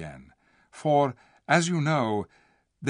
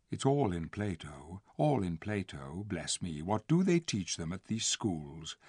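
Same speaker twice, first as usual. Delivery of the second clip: softer, lower muttered aside; under his breath; 4 semitones lower, 7 dB quieter than usual. A narrator's reading. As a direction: grumble it to yourself. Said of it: "he added under his breath".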